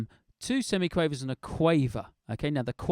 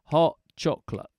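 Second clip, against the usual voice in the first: rhythm example. Shown as a demonstration. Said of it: "So that's what I'm doing here".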